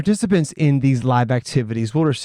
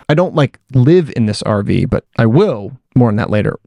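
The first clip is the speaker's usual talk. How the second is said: over loud road noise; recorded in a moving RV; inside an RV; 3 semitones lower, 6 dB louder than usual. Real, not acted. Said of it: "I'm recording this in an R V".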